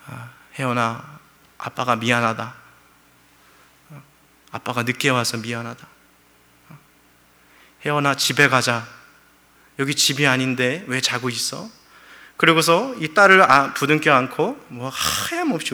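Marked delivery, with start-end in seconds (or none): 0.0-11.7 father softly speaking to his lost daughter; grieving father. Retold or imitated. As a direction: speak gently to a dead child. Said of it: "이 말이 나오더래요".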